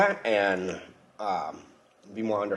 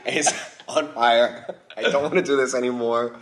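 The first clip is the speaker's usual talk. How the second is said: laughing. Real, not acted. Burning mouth, laughing through it.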